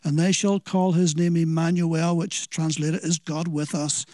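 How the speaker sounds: measured, solemn Bible reading; scripture reading. Acted. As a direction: reverent scripture reading that slows at the end. Reads scripture aloud.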